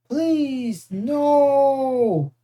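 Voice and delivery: high, whimpering giant begging; pitiful monster plea. Acted. Beaten Cyclops begs hero for mercy, high pitiful whimper. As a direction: beg for your life, pathetic. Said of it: "the Cyclops moaned, pitifully".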